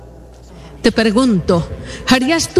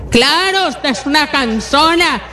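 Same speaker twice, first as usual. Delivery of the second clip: higher, snappy dismissive reply; rude retort; 4 semitones higher than usual. Retold or imitated. A tired husband rebuffing his wife's offer of help, rude and higher. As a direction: brush off the offer of help scornfully. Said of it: "No, esa no es la forma".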